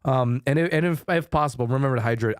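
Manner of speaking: mock nagging voice in your head; inner voice. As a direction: gently nag them to look after themselves. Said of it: "the voices in your head that tell you".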